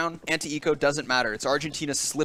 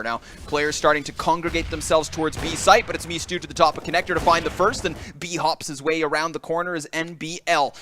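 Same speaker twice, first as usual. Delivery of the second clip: esports commentary, building louder towards the end; live play-by-play; 2 semitones higher, 4 dB louder than usual. Real, not acted. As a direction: drive the action on as it builds.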